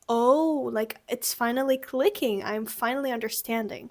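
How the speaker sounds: oh, it finally clicks; dawning realization. Shown as a demonstration. Teacher shows the tone of finally getting it. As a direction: let the understanding dawn on you. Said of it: "with this tone of".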